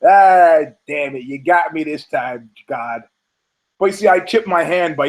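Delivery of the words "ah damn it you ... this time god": a loud "Ah" then a grumbling, fading mock complaint; mock disappointed Satan. Satan grumbling to God about losing the bet, mock sore. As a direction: ham up a sore loser shrugging defeat. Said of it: "Satan's sitting around going".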